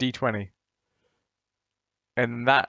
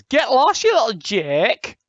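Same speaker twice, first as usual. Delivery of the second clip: high, louder mock brush-off; imitating a woman's rebuff; 9 semitones higher, 6 dB louder, slower than usual. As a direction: play the rejecting woman, pitched up. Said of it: "a woman, the usual reaction is".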